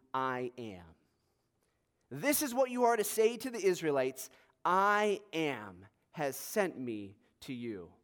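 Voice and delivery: solemn, measured reading with long pauses; dramatic Bible reading to a congregation; scripture reading. Real, not acted. Reads scripture aloud to congregation.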